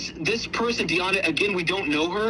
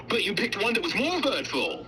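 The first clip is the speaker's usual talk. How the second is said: mocking the husband with a laugh in it; husband's excuse, mocked while laughing; mocking quote. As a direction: parrot his excuse with a laugh. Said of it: "he just said".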